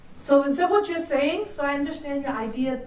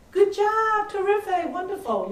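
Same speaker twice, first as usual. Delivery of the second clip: empty praise; 6 semitones higher than usual. Shown as a demonstration. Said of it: "So that's not empty".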